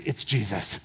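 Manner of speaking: low, soft awed murmur; hushed realization. Acted. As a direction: breathe it out in quiet awe. John tells Peter it's Jesus.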